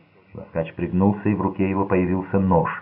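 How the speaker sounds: plain reading voice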